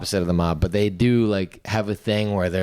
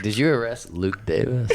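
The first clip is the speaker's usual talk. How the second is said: laughing quip; 3 semitones higher than usual. Acted. Joking quote while laughing.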